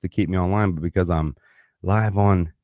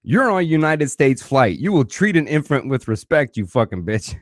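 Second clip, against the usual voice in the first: higher, mock-stern stewardess parody; a mock lecture mimicking the stewardess; imagined comeback; 6 semitones higher than usual. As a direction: throw her own words back at her. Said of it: "I wanted to be like".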